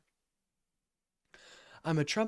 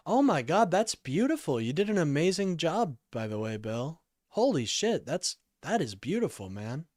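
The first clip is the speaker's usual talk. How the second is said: excited praise; 4 semitones higher, 4 dB louder than usual. Real, not acted. Praising mod Bill's message.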